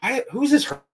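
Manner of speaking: high, loud, bewildered imitation; loud character. Actor baffled by the crying at a reading, imitated loud and high. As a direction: mimic his booming bafflement at everyone. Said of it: "He's very loud".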